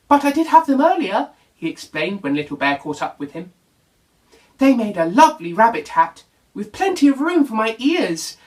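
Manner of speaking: breezy rabbit explaining; Rabbit, bouncy. Acted.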